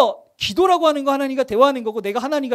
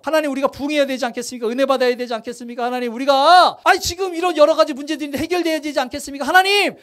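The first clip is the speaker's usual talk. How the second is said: imitating a congregant pestering God in prayer; pleading prayer. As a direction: nag God for an answer, faster and faster. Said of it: "막 이렇게 간청을 했어".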